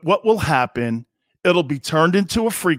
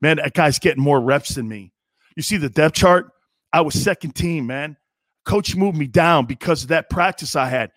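lower, low-key locker-room mumble about the depth chart; worried player; 5 semitones lower than usual. Retold or imitated. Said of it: "You know what people are doing?".

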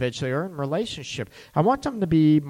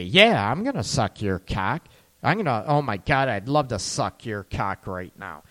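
eager sultry reply; 5 semitones lower than usual. Retold or imitated. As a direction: say it low and hungry, mock-sultry. Voicing eager woman's reply.

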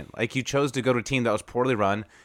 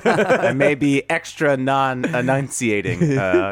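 half-numb mouth, slurred words; numb from the dentist. Real, not acted. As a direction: talk through a numb mouth. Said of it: "half my mouth is numb from the dentist".

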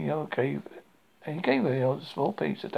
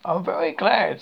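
higher, louder, pleased delivery; happy; 4 semitones higher, 7 dB louder than usual. A narrator's reading. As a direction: say it gladly, with some lift. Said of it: "said Pooh happily".

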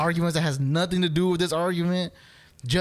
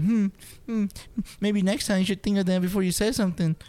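put-on smug girlfriend; 4 semitones higher than usual. Girlfriend accepting the apology, smug mock lecture. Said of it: "now she's like".

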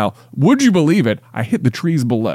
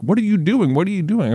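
higher, mock frantic wife; a touch of a yelling wife, mostly pitch; 8 semitones higher than usual. Wife yelling at husband searching apartment, mock shrill. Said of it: "yelling at me the whole time".

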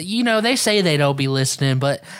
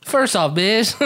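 mock retort; 4 semitones higher, slower than usual. Joking retort.

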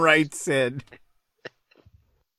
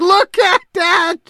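high, loud, slow excited shout; 12 semitones higher, 6 dB louder, slower than usual. Real, not acted. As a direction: cry out in delight. Laughing reaction.

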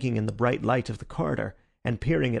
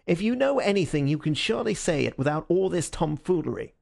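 higher-pitched irritated demand; exasperated inspector, voice raised in pitch; angry; 6 semitones higher than usual. A narrator's reading. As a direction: demand an answer, understated anger. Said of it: "had begun to grow red and angry".

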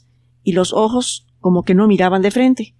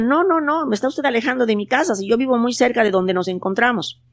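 protesting; 4 semitones higher, 3 dB quieter than usual. Acted. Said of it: "Miguelín protestaba".

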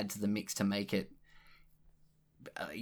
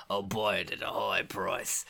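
Cockney merchant; 3 semitones lower than usual. Pretend. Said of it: "my Cockney accent".

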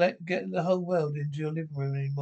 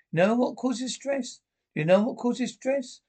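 higher-pitched, exasperated demand; exasperated scolding; 7 semitones higher, 3 dB louder than usual. Acted. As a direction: scold a husband, pitch raised on each question. Wife scolds husband over the gun.

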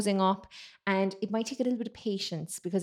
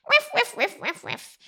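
high little whiff yaps; small dog yapping; 12 semitones higher, 4 dB louder than usual. Shown as a demonstration. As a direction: yap like a tiny dog. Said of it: "a small dog barking".

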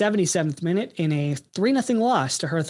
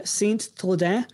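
French accent; 3 semitones higher, slower than usual. Shown as a demonstration. Host naming the player's old club, French accent. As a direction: place name said with a French accent. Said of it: "laughing at my French accent".

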